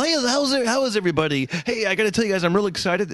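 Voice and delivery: park entertainer greeting. Retold or imitated. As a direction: hype up strangers like a theme-park host. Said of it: "I had to walk up to people".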